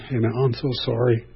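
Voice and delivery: sincere apology. Shown as a demonstration. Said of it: "you should be going".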